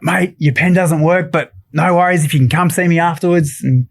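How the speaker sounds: a light, friendly Steve Irwin voice; imitating Steve. Retelling Steve's reply about the pen, light imitation. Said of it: "he's like".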